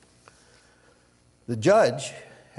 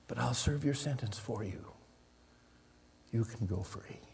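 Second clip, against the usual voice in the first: soft, hushed judge forgiving; tender whisper-soft offer; 3 semitones lower, 9 dB quieter than usual. Retold or imitated. Judge embracing his guilty friend, soft and tender. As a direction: offer it gently, barely above a breath. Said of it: "and he said".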